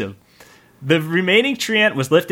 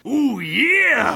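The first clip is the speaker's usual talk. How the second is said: macho bandit whoop; 8 semitones higher than usual. Acted. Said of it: "shouted a bandit".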